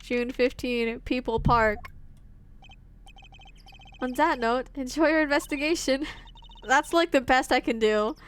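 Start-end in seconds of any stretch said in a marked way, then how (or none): 4.0-6.1 attempted German accent; poor German accent. Streamer voicing Gavin's farewell, attempted German accent. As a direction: have a go at a German accent, badly. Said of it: "That's, like, not even a good accent".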